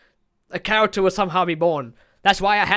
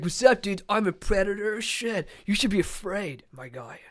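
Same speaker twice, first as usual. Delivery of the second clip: surfer Predator; 5 dB quieter than usual. Retold or imitated. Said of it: "Yautja from California or a Predator".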